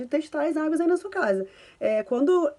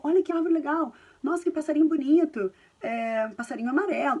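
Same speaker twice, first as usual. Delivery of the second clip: put-on narrating a walk to a toddler; 3 semitones higher than usual. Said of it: "Narra tudo".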